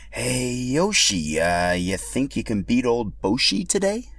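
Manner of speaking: slow, conspiratorial dino; pink Yoshi voice. Acted. Hidden pink Yoshi sizing up Yoshi, sly voice. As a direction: lean in like sharing a secret.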